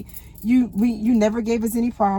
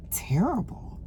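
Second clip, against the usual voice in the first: breathy whispered "Terrible"; whispered answer; 5 dB quieter than usual. Retold or imitated. Whispering to her neurologist how she is doing. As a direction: barely voice it, a hushed confession.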